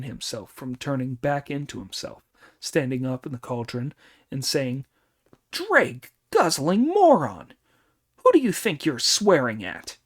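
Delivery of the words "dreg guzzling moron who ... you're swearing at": furious shout. Acted. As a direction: roar the insult up out of the cauldron. Monkey bursts up from cauldron.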